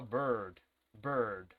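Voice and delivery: "Bird" with an E pulled deep inside the mouth; low, falling "bird", vowel swallowed inward. Shown as a demonstration. Teacher contrasting it with Spanish E, "bird" with an inward vowel. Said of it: "es como una E que se fuera hacia adentro".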